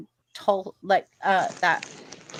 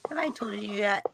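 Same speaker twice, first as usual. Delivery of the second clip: soft unvoiced whisper; soft whispered question; 8 dB quieter, faster than usual. Real, not acted. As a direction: lean in and whisper it. Whispering to her.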